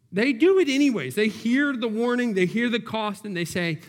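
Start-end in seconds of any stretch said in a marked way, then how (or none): 0.1-1.1 preacher stressing Israel's choice, higher and louder; higher, louder emphatic repeat. Acted. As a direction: lift it, they do it anyways.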